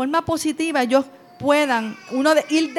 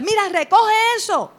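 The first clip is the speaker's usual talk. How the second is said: firm, raised order voice; strong tone; 7 semitones higher, 3 dB louder than usual. Shown as a demonstration. Parent barking an order at a child, firm and loud. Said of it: "y siempre usa el fuerte".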